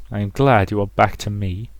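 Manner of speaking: lightly voiced controlling mother; measured, cloying motherly reassurance; possessive mother. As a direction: soothe the daughter possessively.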